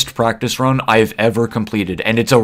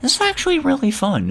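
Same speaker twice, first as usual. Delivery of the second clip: much higher-pitched mocking voice. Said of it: "and were like".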